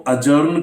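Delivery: अजर्न as "a-jurn", the D silent; correct pronunciation. Shown as a demonstration. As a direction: say अजर्न going straight to the J.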